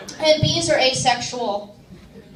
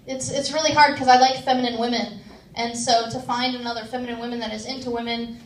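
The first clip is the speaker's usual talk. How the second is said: ordinary talk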